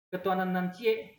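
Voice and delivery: light Minang accent on "nan cie"; Minang dialect. Shown as a demonstration. Teacher contrasting two versions with the same meaning, Minang dialect. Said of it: "logat Minang misalnya".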